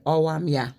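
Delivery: Wolverhampton "ow am ya", H dropped; Wolverhampton accent. Shown as a demonstration. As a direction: greet like a Wolverhampton local. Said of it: "they say".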